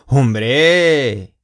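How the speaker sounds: loud, falling Hombre of agreement; emphatic of course. Shown as a demonstration. Teacher answering do you remember me, emphatic Hombre. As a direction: exclaim Hombre like an obvious yes. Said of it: "这个的意思是，当然啦".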